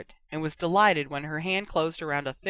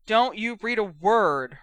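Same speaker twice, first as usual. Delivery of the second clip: warning; 4 semitones higher, 4 dB louder, slower than usual. Acted. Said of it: "Ron warned".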